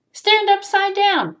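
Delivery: high, slow, loud storybook ghost; ghost giving advice. Acted. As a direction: call out the next remedy, stretched. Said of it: "he says".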